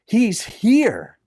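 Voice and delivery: put-on an old uncle who can't hold back his joy; blurted out. A narrator's reading. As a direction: let the news burst out of him through tears. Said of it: "he blurted out".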